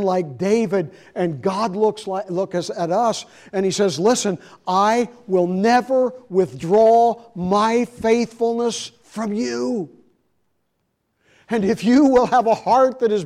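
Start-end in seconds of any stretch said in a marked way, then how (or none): 4.0-9.9 slow, louder solemn promise; God's promise. Retold or imitated. God promising David faithfulness, slow and solemn. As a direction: speak it slowly as a faithful God.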